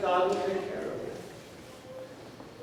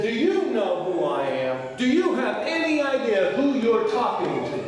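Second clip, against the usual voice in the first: rising, louder indignant huff; indignant demand; 4 semitones higher, 3 dB louder than usual. Retold or imitated. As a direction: puff up like an entitled VIP. Angry man cutting airline line.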